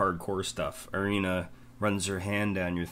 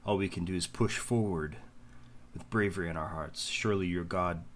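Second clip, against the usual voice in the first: gentle encouragement. Acted. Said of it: "kneels down ... hand on your shoulder".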